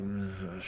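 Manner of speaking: low, soft "ugh"; quiet disgusted groan. Retold or imitated. Diner eyeing his cold plate, quiet disgusted groan. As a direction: groan under your breath. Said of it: "I'm just kinda like".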